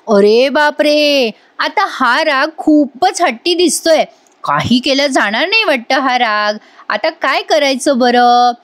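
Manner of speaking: slow, drawn-out mock alarm; mock dismay. Wife fretting over sulking husband, slow mock dismay. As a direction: ham up the worry, slowly.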